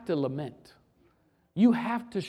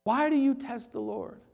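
higher, pressing rebuke; emphatic question; 6 semitones higher than usual. Acted. Preacher repeating Moses's rebuke to the church, emphatically. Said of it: "preacher repeats with force".

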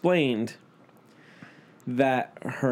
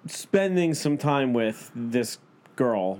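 slow, drawn-out wording; slower than usual. Real, not acted. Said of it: "talking to me like a toddler".

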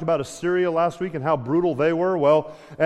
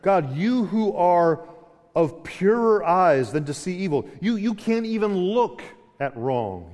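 voicing Habakkuk. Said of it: "He says in verse thirteen".

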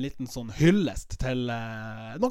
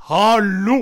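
mock shout; 4 semitones higher, 10 dB louder than usual. Imitating the man's reply.

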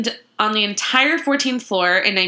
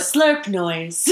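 lightly voiced robot; a hint of robotic speech; 2 semitones lower than usual. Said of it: "my robot voice".

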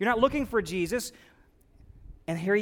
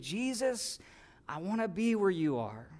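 hushed prayer; 7 dB quieter than usual. Acted. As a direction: pray it under your breath. Quiet prayer of believer.

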